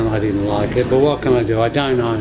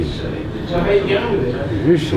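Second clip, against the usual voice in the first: very slow, higher rising question; drawn-out searching; 6 semitones higher, much slower than usual. Retold or imitated. Man recalling his worry about her, higher drawn-out searching. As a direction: stretch it out and lift it high, searching. Retold anxious wondering, repeated more urgently.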